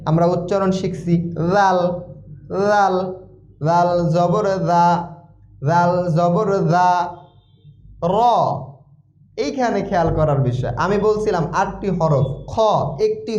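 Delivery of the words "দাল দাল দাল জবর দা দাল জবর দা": "দাল" with a voiced th, vowel held; Arabic dhal sound. Shown as a demonstration. Teacher minding the articulation, "দাল" said as Arabic dhal. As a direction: say "দাল" as "dhaal", like th in this. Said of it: "আমাদের উচ্চারণের দিকে খেয়াল রাখতে হবে".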